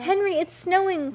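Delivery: high, singled-out call to someone away; excited calling out. A narrator's reading. Girl calls Henry on the way down, excited calling. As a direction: call ahead in a high, eager voice. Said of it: "Heidi called on the way down".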